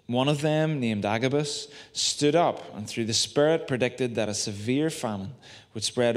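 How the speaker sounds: measured, slowing Bible reading that fades at the end; scripture reading. Acted. Pastor reads Acts to the church, measured scripture voice. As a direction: read the passage to the congregation.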